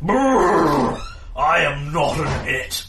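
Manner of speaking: loud, slow huffing beast; mammoth voice. Acted. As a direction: rumble it like an offended mammoth. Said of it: "says the mammoth".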